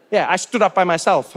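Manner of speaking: ordinary talk, nothing marked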